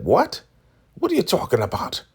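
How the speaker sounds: high, indignant disbelief; mock incredulity. Elder Mother denies the accusation.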